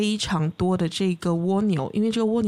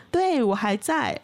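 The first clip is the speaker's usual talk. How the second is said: slow, unhurried snail reply; drawn-out and calm, a snail that is in no hurry; 3 semitones higher, slower than usual. Acted. Snail answers the eagle from below, slow and calm.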